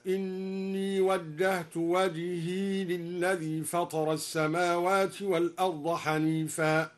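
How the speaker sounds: "وجهي" with the ya silent, slow chant; don't open the ya in "وجهي". Shown as a demonstration. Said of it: "وسكن الياء". ("وجهي" بإسكان الياء)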